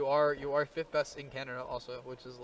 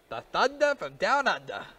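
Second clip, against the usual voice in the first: slow, higher, louder ring-announcer hype; mock boxing announcer billing; 5 semitones higher, 5 dB louder, slower than usual. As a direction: boom it out like introducing a fighter. Hyping an Australian player's nickname.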